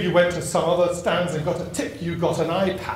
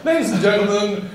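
laughing retelling; 4 semitones higher than usual. Retold or imitated. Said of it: "What was hilarious was".

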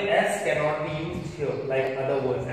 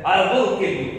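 "I will kill you" louder, with a firm threat; threatening; 5 dB louder than usual. Shown as a demonstration. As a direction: warn with menace, pressing "will". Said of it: "while threatening someone".

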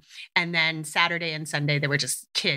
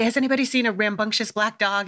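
calling out; 3 semitones higher than usual. Retold or imitated. Calling out at crowded sledding hill.

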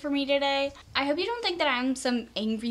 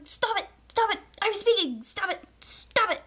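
frustrated pleading; 6 semitones higher than usual. Retold or imitated. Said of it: "you're just like".

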